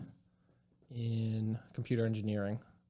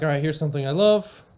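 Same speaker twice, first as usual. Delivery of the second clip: excited self-quote; 5 semitones higher, 10 dB louder than usual. Retold or imitated. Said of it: "so it was like".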